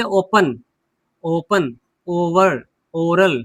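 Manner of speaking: ओपन, ओवर, ओरल opening on a long o; long o pronunciation. Shown as a demonstration. Teacher models examples, ओपन, ओवर, ओरल with long o. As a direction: round first vowel in ओपन, ओवर, ओरल. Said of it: "उसका उच्चारण हम ओ करते हैं".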